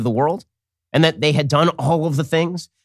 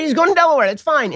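mock breezy; 11 semitones higher than usual. Mocking media's shrug at Biden.

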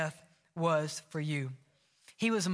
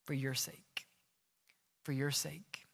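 soft; 5 semitones lower, 7 dB quieter than usual. Real, not acted. Repeated hushed appeal.

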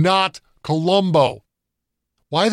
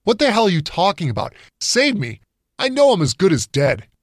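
higher, fast disbelieving burst; incredulous outburst; 7 semitones higher than usual. A narrator's reading. Perry scoffing at the voices, higher and faster. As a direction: throw it back at them in disbelief.

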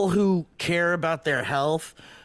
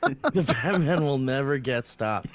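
lower, grave English butler line; British butler retake; 4 semitones lower than usual. Retold or imitated. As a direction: deliver it like the loyal butler once more. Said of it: "is that better?".

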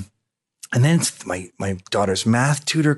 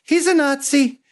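mock gullible; 8 semitones higher than usual. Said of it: "they just went".

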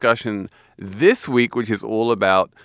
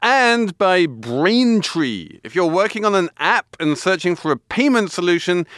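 upbeat sponsor read; 3 semitones higher than usual. Acted. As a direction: read it like a radio ad. Host reads sponsor ad.

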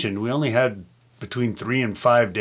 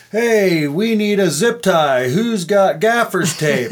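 higher, drawn-out call to the crew; 6 semitones higher, slower than usual. Retold or imitated. Crew member asks around for gear on the shoot, calling out. Crew's standing joke, calling out.

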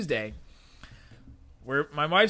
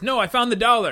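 eager, higher and louder; proud triumphant announcement; excited; 7 semitones higher, 8 dB louder than usual. Retold or imitated. Man eagerly explains himself.

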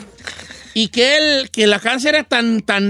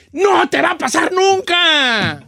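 mock shout; 5 semitones higher, much slower than usual. Lecturing Chino, shouting verdict.

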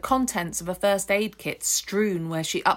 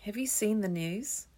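softer, careful and gentle; gentle question; 3 semitones higher, 5 dB quieter than usual. Acted. Nick asking the angry woman carefully, gentle and soft. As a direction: ask softly, as if approaching an angry cat. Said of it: "he asks gently".

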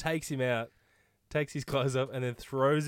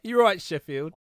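higher, louder mock northern English accent; Sheffield accent; 4 semitones higher, 6 dB louder than usual. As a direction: hail them in put-on Sheffield accent. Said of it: "You sound like you're from London".

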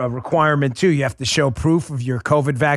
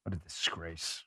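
disgusted murmur; 10 semitones lower, 20 dB quieter than usual. Real, not acted. Disgusted aside after rant.

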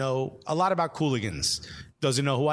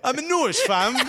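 laughing echo; 8 semitones higher, 4 dB louder than usual. Retold or imitated. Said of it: "laughing along, echoing the joke".

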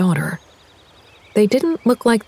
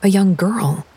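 ordinary delivery, nothing marked

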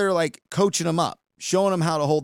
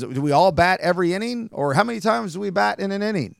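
put-on higher-pitched, half-hearted British accent; attempted British accent; 6 semitones higher than usual. Baseball newcomer asking about batting rules, in a weak British accent. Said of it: "I can't do a British accent".

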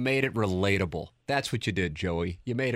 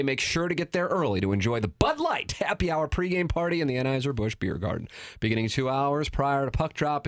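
radio ad read; 3 semitones higher than usual. Acted. Host to listeners, reading the pregame party ad upbeat. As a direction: sell the party like a radio pitchman.

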